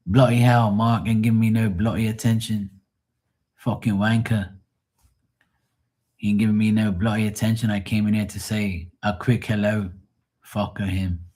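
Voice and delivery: lightly put-on British grumble; mock English accent. Imitating Matt griping about being ignored, mock English accent. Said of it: "And Matt's gonna be like".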